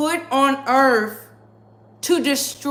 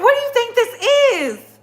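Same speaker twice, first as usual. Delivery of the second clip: incredulous outrage; 9 semitones higher than usual. Real, not acted. Outraged at friends fighting in Cabo.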